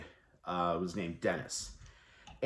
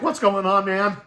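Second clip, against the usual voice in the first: loud; 11 semitones higher, 10 dB louder than usual. Retold or imitated. Retold stage line as Dennis.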